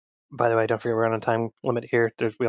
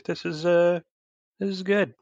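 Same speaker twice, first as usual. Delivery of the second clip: Graham's reply; 7 semitones higher than usual. Acted. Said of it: "Graham just sort of nods and goes".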